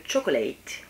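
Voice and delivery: drawn-out English pronunciation by a French speaker; put-on English accent, stretched out. Shown as a demonstration. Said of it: "avec mon super accent".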